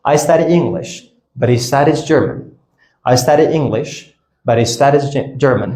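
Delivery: "but he" linked as "buddy"; connected speech. Shown as a demonstration. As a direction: drop the H of he, tap the T of but.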